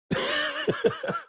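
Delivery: sudden squeaky high-pitched laugh; high cackling laugh. Real, not acted. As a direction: burst into a high wheezy giggle. Laughs at his own joke.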